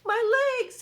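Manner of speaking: high, loud furious bug scream; angry scream. Acted. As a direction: scream in rage as the centipede. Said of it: "The centipede screamed with anger".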